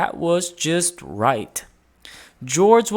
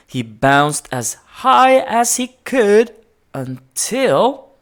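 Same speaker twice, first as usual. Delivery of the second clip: excited build; 6 semitones higher, 6 dB louder than usual. A narrator's reading. Building to the crash.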